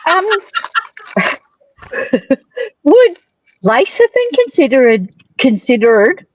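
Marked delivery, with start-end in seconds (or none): 2.8-6.3 slipping into an American accent; vowels drifting American. Real, not acted. Asking the guest with an American accent. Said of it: "that's my American accent coming out".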